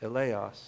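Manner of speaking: "Eleos." spoken carefully as eh-LAY-os; Greek pronunciation. Shown as a demonstration. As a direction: say "Eleos." as eh-LAY-os, slow and low. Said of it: "The word in Mark's original Greek".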